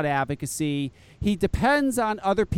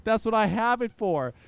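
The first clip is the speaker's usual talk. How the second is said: laughing through; 2 semitones higher than usual. Retold or imitated. Laughing while retelling Phil's answer.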